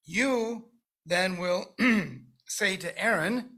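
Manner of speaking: slow reading with "you" held and rising; single out "you" as one person; stress on you. Shown as a demonstration. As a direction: point the "you" at Moses alone. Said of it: "the singular you".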